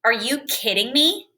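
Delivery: annoyed, rising challenge on me; upset disbelief. Shown as a demonstration. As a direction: say it like you're truly bothered. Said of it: "Here's the second way".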